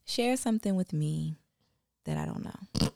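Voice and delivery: slow, soft counselor voice; calm grounding exercise; therapist voice. Acted. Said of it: "I hate your therapist voice".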